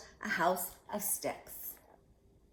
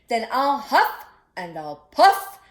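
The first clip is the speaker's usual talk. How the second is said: slow, loud, menacing wolf; big bad wolf; 12 dB louder, slower than usual. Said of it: "cried the wolf".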